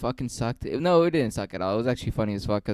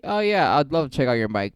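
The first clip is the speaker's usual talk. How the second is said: fake enthusiasm; 3 semitones higher than usual. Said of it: "So I was like".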